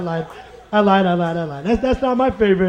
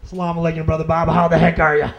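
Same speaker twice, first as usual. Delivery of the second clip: put-on lower, square white-American accent; white American convert; 5 semitones lower than usual. New convert greets Brother Bob, white American accent. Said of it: "one of our white Muslim brothers".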